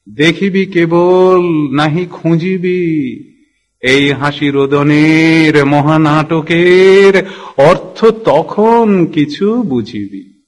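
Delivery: slow, measured recital with long-drawn vowels; poetry recitation. Acted. আমার ইচ্ছে করে এরম ধরনের কবিতা বলতে, slow poetry recitation. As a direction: stretch the line endings in a lilting verse cadence.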